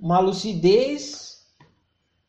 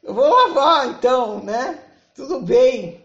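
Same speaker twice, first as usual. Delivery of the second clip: lightly voiced meek partner, a bit higher; submissive giving in; 4 semitones higher, 3 dB louder than usual. Submissive partner agrees to wash the dishes, mildly meek. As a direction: give in with little hesitant pauses.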